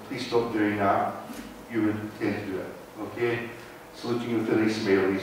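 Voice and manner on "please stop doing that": polite request. Retold or imitated. A speaker imitating a friendly constable's gentle request. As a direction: ask nicely like a friendly bobby. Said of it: "if someone comes up to you and says".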